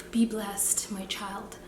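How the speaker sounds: a light Nigerian auntie lilt. Pretend. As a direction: bless them like a Nigerian auntie. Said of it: "I sound like a Nigerian auntie".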